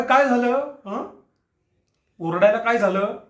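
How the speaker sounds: what happened, said with a threat; menacing. Acted. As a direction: needle her for crying out. Wife cries out, he mocks.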